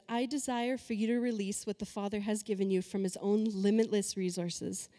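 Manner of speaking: forceful reading, key words hit hard; emphatic scripture reading. Acted. Preacher reads the Mirror translation to the congregation, emphatic reading. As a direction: read the verse out with punchy, preached emphasis. Reads a Bible passage aloud.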